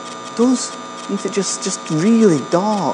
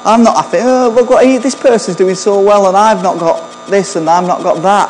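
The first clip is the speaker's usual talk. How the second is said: mock discontented complaint, starting high; lightly acted jealous griping; envious grumbling; 3 semitones higher than usual. Greedy person eyeing another's good fortune, mock envious grumble. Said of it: "Greed. People who are just really concerned".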